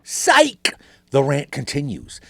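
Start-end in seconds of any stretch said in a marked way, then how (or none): 0.0-0.7 gotcha shout. Acted. Gotcha after fake sign-off.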